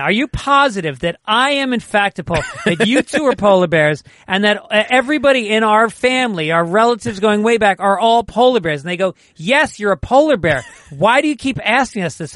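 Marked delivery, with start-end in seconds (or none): 0.0-8.8 high, loud, mounting insistence of a doubting cub; acted exasperated cub; insistent questioning. Joke's cub escalates his repeated question. 9.4-12.3 higher, emphatic fed-up reply; acted parental exasperation; exasperated parents. Joke's parents answer the nagging cub.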